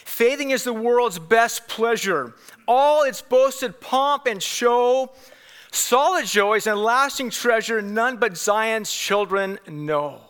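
slow, measured verse declamation; hymn verse recital. Acted. Preacher quoting a hymn to the congregation, declaimed slowly. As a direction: recite the verse with drawn-out line endings.

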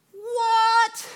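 a high, drawn-out disbelieving what; stunned what. Real, not acted. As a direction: react as if you can't believe it. Stunned reaction to the verse.

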